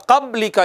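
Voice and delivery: क़ब्ली का without the ब echo; flat ब in क़ब्ली; wrong reading. Shown as a demonstration. Teacher repeating the wrong reading, flat ब. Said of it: "ये गलत है".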